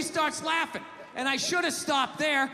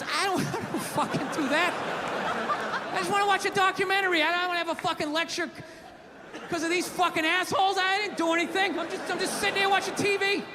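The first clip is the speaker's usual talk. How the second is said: higher-pitched, worked-up retold complaint; exasperated protest; 4 semitones higher than usual. Husband arguing with his wife over a documentary, exasperated. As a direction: protest your innocence, voice raised in pitch.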